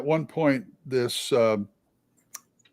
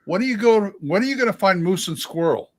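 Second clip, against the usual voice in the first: imitating a castmate's ribbing; teasing; 5 semitones higher than usual. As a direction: needle them with a playful jab. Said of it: "kept teasing me".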